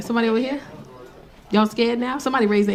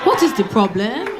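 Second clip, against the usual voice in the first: put-on African accent; 2 semitones lower than usual. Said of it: "this is what the voice note says".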